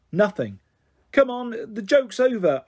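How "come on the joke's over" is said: slow, higher commanding call. A narrator's reading. Lucy ordering the hiding Kitty to come back, slow and stern. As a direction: call her back sternly but scared. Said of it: "I called".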